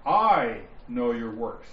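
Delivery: "I" drawn out, slow and emphatic; stress on I. Shown as a demonstration. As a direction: lean hard on the word "I", then pause. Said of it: "You're going to hear me emphasize".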